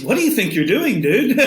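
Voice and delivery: easygoing pal tone; casual dude-to-dude. Shown as a demonstration. Showing how to talk to a dog, casual buddy tone. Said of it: "a casual ... voice".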